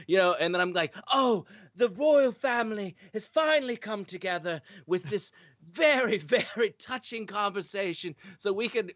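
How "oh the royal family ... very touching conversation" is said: mock British commentary. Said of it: "I'd do Cockney".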